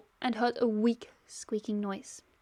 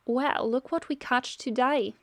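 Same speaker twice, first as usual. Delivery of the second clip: put-on slow, accidental Australian accent. Villain Shira taunting her catch, in a mistaken Australian accent. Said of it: "That was an Australian accent".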